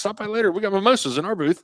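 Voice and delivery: put-on amateur Canadian accent pitched high; bad Canadian accent. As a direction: invite him over in a mock Canadian accent. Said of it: "I don't do a good Canadian accent".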